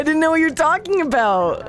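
indignant. Real, not acted. Heated argument, raised pitch.

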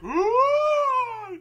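high, loud melting-man howl; pained groan. Retold or imitated. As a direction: wail like the toxic waste guy. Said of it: "he's like".

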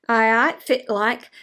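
learner's Doric greeting. Shown as a demonstration. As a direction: try out the Aberdeen Doric "Aye, aye, fit like". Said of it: "I've been learning some Doric".

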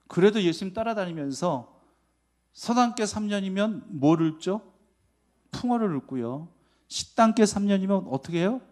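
normal talking voice

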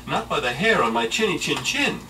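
high, loud defiant little pig. Acted. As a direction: stand firm as a small pig. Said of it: "cried the little pig".

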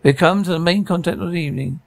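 lightly played fight announcer, lifted pitch; ring announcer. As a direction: introduce the bout like a ring MC. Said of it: "loud, distorted voice".

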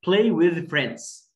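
loud, slow teacher demo; slow model reading. Shown as a demonstration. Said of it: "play يلعب with مع friends".

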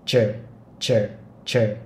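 chờ said with lips rounded forward. Shown as a demonstration. Teacher modelling chờ with rounded lips. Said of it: "có thể giữ mồm lại".

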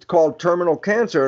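normal talking voice

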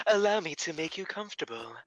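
stiff, formal robot butler. Acted. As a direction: serve them like a polite robot. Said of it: "It's a robot butler".

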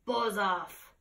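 a lightly voiced monster, slow and menacing; a hint of a growling beast, drawn out. Beast warning the dragon off its witch, lightly growled. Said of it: "its terrible voice ... was a yowl and a growl and a croak".

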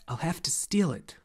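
whispered, falling at the end; hushed confession. Acted. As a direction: Atreyu confides his plan under his breath. Atreyu admits a secret plan.

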